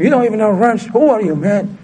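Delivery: a hint of a mechanic berating an apprentice; mock yelling mechanic. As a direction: imitate a boss mildly yelling at a new guy. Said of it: "He ain't gonna yell at him".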